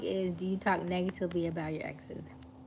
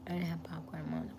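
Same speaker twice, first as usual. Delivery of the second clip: whispering; 6 dB quieter than usual. Real, not acted. Unvoiced whisper to Mom.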